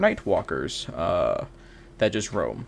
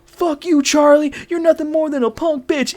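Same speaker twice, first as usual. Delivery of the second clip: much higher mock screech of defiance; hammed-up spit-back at the chef; defiant insult; 3 dB louder than usual. The woman insulting the chef, mock shrill defiance. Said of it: "she goes".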